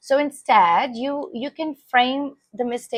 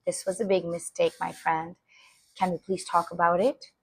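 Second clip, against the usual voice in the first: calm parent; 2 semitones lower, 5 dB quieter than usual. Shown as a demonstration. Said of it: "you can say".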